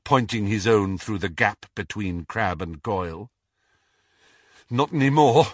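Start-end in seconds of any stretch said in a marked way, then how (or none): 4.7-5.5 slightly breathless retort; panting. A narrator's reading. Harry to Malfoy over the wand, lightly panted retort. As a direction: answer as if a little winded. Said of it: "panted Harry".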